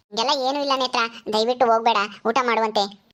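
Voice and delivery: a lightly voiced mother, coaxing and calming; soothing mother. Mother begs Netra to stay and eat, calming. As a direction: settle your upset daughter gently.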